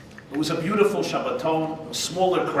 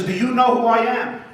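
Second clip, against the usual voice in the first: higher, louder, self-important Trump; mock Trump; 9 semitones higher, 5 dB louder than usual. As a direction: puff up and demand recognition. Trump voiced in a joke.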